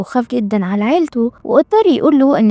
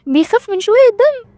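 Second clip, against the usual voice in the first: a scoffing question that jumps high at the end; mocking disbelief; 3 semitones higher than usual. Heroine mocking the powerful president for fearing blood. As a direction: sneer at the mighty president being scared. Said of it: "فضحكت بسخرية".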